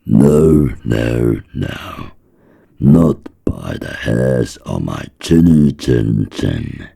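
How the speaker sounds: loud, high, defiant little pigs. Acted. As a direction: shout back as the scared pigs. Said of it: "So they answered back".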